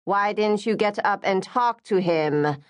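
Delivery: a touch of an eager pushy mother; mildly excited. Acted. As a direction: nudge your daughter, mildly keen. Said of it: "Missus Lim said excitedly".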